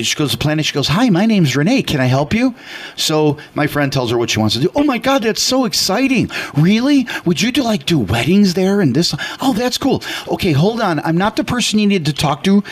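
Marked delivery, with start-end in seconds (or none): 0.9-2.5 bright welcoming receptionist; chirpy clerk greeting. Retold or imitated. City clerk greeting voiced. 4.8-12.6 high-pitched, thrilled clerk; over-the-top enthusiasm; gushing excitement. Retold or imitated. City clerk gushing over plan.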